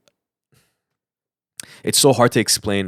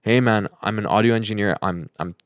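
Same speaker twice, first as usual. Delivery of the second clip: sincere message. Acted. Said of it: "that's not how you talk to someone. It's like".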